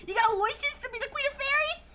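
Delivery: high, mocking Cockney accent; toothless British accent. Streamer mocks the Fairy Queen in a bad toothless British accent. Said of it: "like a poor British person with no teeth".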